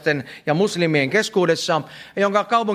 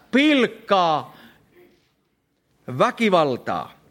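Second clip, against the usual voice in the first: emphatic preaching. Real, not acted. Preacher tells congregation a vision must be bought, emphatic preaching. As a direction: preach it with weight, pausing before the last blows. Preacher drives home the point.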